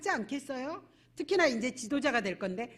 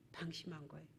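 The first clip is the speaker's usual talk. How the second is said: "방심한 거예요" said much softer, dropping away; quiet; 8 semitones lower, 19 dB quieter, faster than usual. Shown as a demonstration. Pastor answering his own question, "방심한 거예요" softer. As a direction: softly repeat "방심한 거예요" as a verdict. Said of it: "자, 어때요?".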